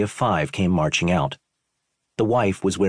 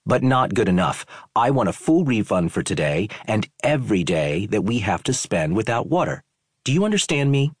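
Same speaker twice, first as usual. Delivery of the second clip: pushy guest, rising higher to the end; demanding tourist; 4 semitones higher than usual. Acted. Tourist demands a full refund from the owner, rising and insistent. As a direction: lay down demands like an ultimatum.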